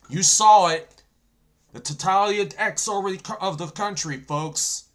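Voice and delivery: loud preaching to the viewers, voice pushed up; yelling sermon. Real, not acted. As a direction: preach it like a warning from the pulpit. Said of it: "yelling on here".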